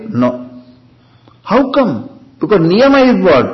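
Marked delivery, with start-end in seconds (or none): 1.4-3.5 high rhetorical question; mock surprise. Rhetorical question, much higher.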